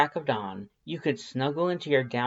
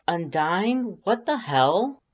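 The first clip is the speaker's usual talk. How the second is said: louder, higher call across the house; 7 semitones higher, 5 dB louder, slower than usual. Acted. Reeds calling out to the intruder, startled and loud. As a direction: shout it down the hall, startled. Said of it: "you call out".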